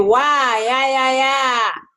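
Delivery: voice resonating forward in the mouth. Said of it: "one I'm just putting more p-, pockets".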